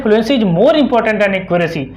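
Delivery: reading out the English notes word by word, very slowly; slow dictation. Shown as a demonstration. Teacher reading the notes to students, very slow dictation. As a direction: spell it out slowly like dictating to a class.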